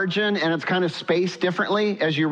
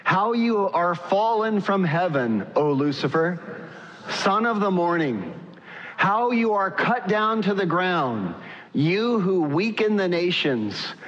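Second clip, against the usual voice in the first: unison reading. Shown as a demonstration. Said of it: "let me hear you read this in a unified voice".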